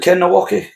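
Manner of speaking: Nowacki said with "wacki" in place of "vitski"; mispronounced surname. Real, not acted. Checking a strongman's name with co-host, mispronounced as Nowacki. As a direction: say Nowacki, ending in a mistaken "wacki". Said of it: "you're just saying it wrong".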